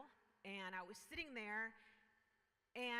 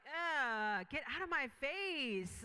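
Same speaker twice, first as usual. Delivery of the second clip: annoyed brush-off; 3 semitones higher, 7 dB louder, much slower than usual. Retold or imitated. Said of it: "And I was like".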